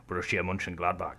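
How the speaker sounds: Borussia Mönchengladbach in a lilting Welsh accent. Shown as a demonstration. Tries the club name in a Welsh accent for the podcast. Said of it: "try and say Borussia Mönchengladbach in a Welsh accent".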